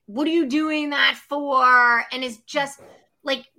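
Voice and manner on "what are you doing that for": mock disapproving partner, drawn out slowly; slow, stretched-out mock challenge; sceptical partner. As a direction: lightly imitate a challenging significant other. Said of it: "the significant other that is like".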